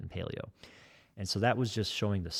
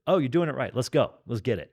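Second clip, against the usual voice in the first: hyped coach; 4 semitones higher, 4 dB louder than usual. Retold or imitated. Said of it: "I'm like".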